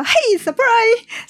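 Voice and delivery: slow, drawn-out high "surprise"; surprise party shout. Retold or imitated. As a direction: stretch the "surprise" like a creepy jump-out. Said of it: "然后我又怕他". (拖长音调的惊喜大喊)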